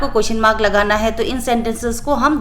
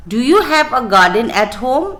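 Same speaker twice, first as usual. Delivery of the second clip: slow reading; much slower than usual. Shown as a demonstration. Teacher reads question for writing.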